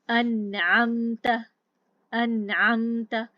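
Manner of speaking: अनअमत with noon sakin joined to the next vowel; अनअमत slow, noon linked smoothly. Shown as a demonstration. Teacher shows linking the silent noon, slow recitation. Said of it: "जैसे हम पढ़ते हैं अनअमत".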